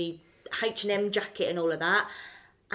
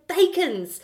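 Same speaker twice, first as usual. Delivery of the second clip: high, loud Cockney burst; imitated Cockney; 8 semitones higher, 8 dB louder than usual. Stranger revealing his school, imitated loud Cockney. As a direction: switch into Cockney as the stranger did. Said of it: "he started switching into his Cockney".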